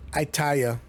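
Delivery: Itaya, with the final D of "tired" dropped; forgotten D. Retold or imitated. Host echoing an old girlfriend who lisped, dropped-D imitation. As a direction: say Itaya as if forgetting the D. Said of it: "a girl who had a lisp".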